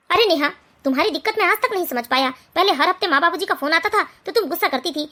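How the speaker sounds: husband calmly talking his wife round. Acted. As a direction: patiently reason with a complaining wife. Elder husband answers his wife.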